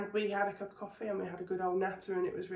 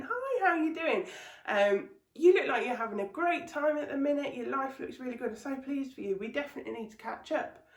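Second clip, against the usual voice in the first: gushing friend; 4 semitones higher than usual. Retold or imitated. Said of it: "just going".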